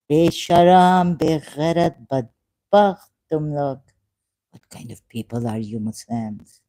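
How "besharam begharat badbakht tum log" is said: louder, slow hurled insults in Urdu; angry insults. Real, not acted. Streamer cursing Muslims in Urdu, loud slow insults. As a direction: spit each insult out separately.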